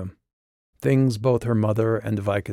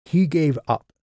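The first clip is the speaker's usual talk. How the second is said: bitter; 7 semitones higher, 4 dB louder than usual. Acted. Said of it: "The boy's voice was bitter".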